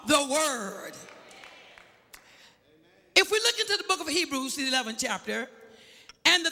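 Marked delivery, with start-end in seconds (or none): 0.1-0.9 slow drawn-out praise. Shown as a demonstration. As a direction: stretch each word slowly. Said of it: "One more time".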